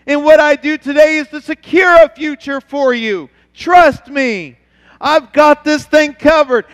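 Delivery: God calling out to his people. Retold or imitated. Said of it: "And God says".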